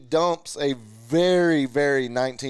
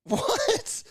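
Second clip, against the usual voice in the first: laughing. Real, not acted. Laughing at friend's porn remark.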